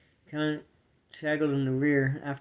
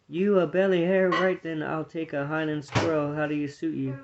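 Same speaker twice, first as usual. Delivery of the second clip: scoffing. Acted. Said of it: "Ferdinand scoffed".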